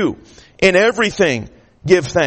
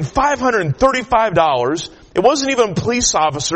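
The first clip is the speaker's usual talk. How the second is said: higher-pitched indignant griping; retold fuming; 4 semitones higher than usual. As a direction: protest the unfairness, mildly worked up. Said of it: "I am just fuming".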